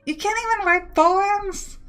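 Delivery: can't believe this rule; shocked disbelief. Real, not acted.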